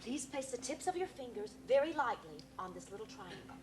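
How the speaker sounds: hushed, solemn spirit invocation; séance medium. Acted. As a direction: call the spirits in reverently.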